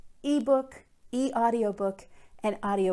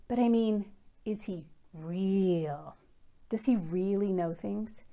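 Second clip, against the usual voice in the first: put-on lively first-person read-aloud of a kid's case file; story narration. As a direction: read it like a curious schoolboy telling his story. Librarian reads novel aloud.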